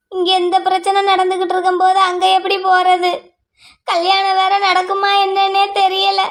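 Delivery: words catching on tears; crying. Acted. Worried mother fearing the wedding is off, crying. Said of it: "இப்ப எதுக்கு அழுதுகிட்டு இருக்க".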